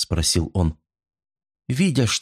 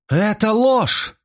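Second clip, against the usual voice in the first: high, slow, drawn-out scream of denial; 13 semitones higher, slower than usual. A narrator's reading. Mrs Creel screaming at the detective, a high outraged wail. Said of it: "завопила миссис Крил".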